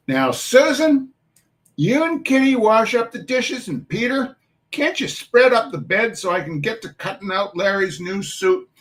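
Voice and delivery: put-on Irish-tinged New York mum calling the children to chores; New York Irish dialect. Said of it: "Missus Ruggles speaks in a dialect".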